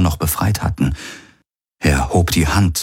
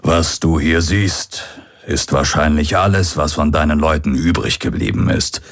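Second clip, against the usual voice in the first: put-on grim old pirate. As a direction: break the bad news gently but plainly. Old pirate reveals the dead city.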